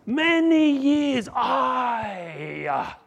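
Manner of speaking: high, loud, slow shouted complaint; resentful outburst. Acted. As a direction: shout the grievance, draw it out. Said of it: "he said".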